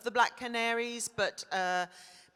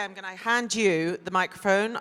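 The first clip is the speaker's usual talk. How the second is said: ordinary delivery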